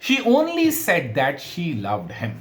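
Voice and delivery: slow example sentence with ONLY leaned on; stress demonstration. Shown as a demonstration. Teacher reads out an English example sentence, stress on "only". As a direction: say it very slowly, weighting "only". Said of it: "किसी भी शब्द के ऊपर stress को बदलते".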